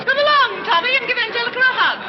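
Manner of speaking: bright gushing hostess voice. Acted. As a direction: gush over the guest. Gushing hostess greets guest.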